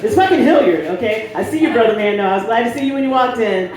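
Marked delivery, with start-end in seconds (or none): 0.0-0.9 mock angry shout. Mock angry outburst at audience.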